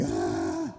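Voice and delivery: mock the boy's scared shout; scared yelp. Father retelling his son waking in blood, mock frightened cry. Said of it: "And he's so scared".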